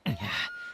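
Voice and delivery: awkward throat clear. Acted. Flustered before denying the heart shape.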